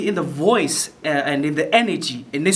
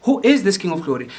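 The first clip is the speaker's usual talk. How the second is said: curious asking. Shown as a demonstration. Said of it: "asking from a curious point of view".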